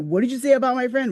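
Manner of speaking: aggressive, confrontational delivery. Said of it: "Rolling her head and everything".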